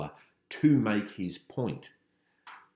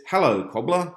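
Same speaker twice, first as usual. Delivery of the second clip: loud, higher-pitched Cockney greeting; Cockney accent; 7 semitones higher, 8 dB louder than usual. Acted. Passer-by greeting the man in the shop, in a Cockney accent. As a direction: call out a hammed-up Cockney hello. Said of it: "suddenly speaking in a cool Cockney accent".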